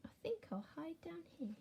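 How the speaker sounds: hushed secretive whisper; worm whispering. Acted. Worm hides from the mole, whispering. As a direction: whisper like a worm hiding underground. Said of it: "this worm's saying".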